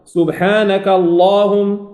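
slow «سبحانك اللهم», long dark A in اللهم; alef enfático. Shown as a demonstration. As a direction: sustain اللهم with heavy L and vowel. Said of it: "أفخم الألف".

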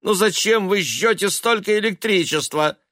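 nagging. Acted. Mother nagging about electricity.

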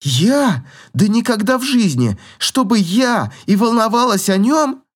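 put-on indignant girl, huffy; snorting denial. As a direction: snort it off like she'd never care. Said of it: "фыркнула она".

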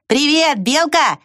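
high called greeting; calling back. A narrator's reading. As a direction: shout back the hello. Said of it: "крикнул в ответ муравей".

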